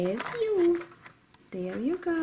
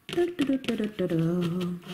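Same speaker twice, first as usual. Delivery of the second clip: low, rolling du-du-du; playful ride noise; 4 semitones lower than usual. Pretend. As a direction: trill a toy's little travelling noise. Imitated ride noise in toy play.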